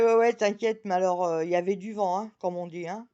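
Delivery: loud, breezy tipsy reassurance; tipsy self. Retold or imitated. Tipsy woman reassuring her friend, loud and breezy. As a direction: brush it off like you've had a few. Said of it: "Je fais".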